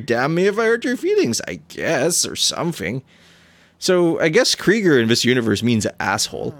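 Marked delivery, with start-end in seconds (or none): 0.0-3.0 higher, harsh and strained rough soldier; throat-tearing gruff captain, half sorry. Acted. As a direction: scrape it out of the throat like a hardened captain. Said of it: "that's gonna be harsh in my throat".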